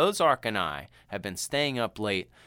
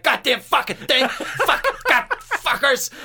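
high, loud cursing through laughter; laughing while imitating a furious old man; grandpa cursing; 14 semitones higher, 9 dB louder, slower than usual. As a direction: spit the curses while cracking up. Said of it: "he's like".

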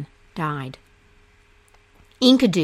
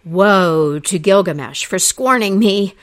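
loud, bitter curse; a scorned goddess cursing Gilgamesh; crying out a curse; 7 dB louder than usual. Acted. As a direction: hurl the curse at them. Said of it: "she cried".

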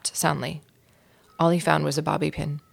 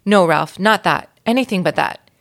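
loud, frightened pleading; alarmed mother; 6 dB louder than usual. Acted. Mother begging Ralph not to fetch an aspirin, in alarm. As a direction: beg him not to, in alarm. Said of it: "Ralph's mother gasped".

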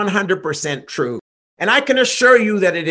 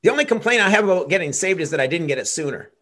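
happy convert; faster than usual. Pretend. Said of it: "They'll say".

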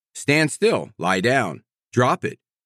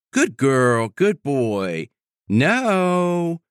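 sweet praise tone; much slower than usual. Shown as a demonstration. Showing listeners that no can't sound like gentle praise. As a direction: say even the no sweetly. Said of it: "no can't be said nicely, like".

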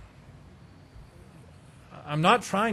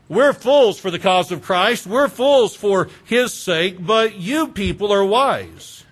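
sarcastic; 4 dB louder, slower than usual. Acted. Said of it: "implementing a little bit of sarcasm".

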